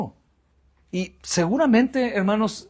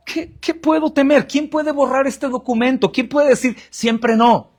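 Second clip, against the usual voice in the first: fervent rhetorical questions; 6 semitones higher than usual. Acted. Predicador proclama con fervor.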